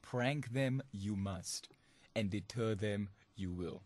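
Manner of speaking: lightly voiced wise master, very slow; a hint of Yoda, words drawn out slowly. Host signing off with Yoda's wisdom, very slow. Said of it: "the wise words of Yoda".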